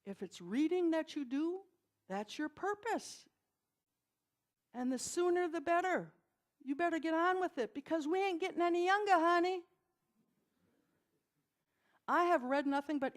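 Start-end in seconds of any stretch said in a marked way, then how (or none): 0.0-9.6 lightly imitated Southern drawl; a rough stab at sassy Southern speech. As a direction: put on a teacher's Southern drawl, half-successfully. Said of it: "in her best Southern drawl, which I can't do".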